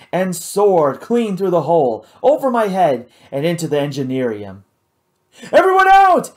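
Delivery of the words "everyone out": loud, high commanding shout. A narrator's reading. Hal orders everyone out of the room, loud commanding shout. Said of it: "Hal was shouting".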